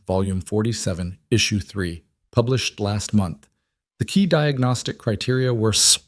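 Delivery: monotone recital, reading from memory; flat reciting. Acted. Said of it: "his voice was different, flat, reciting".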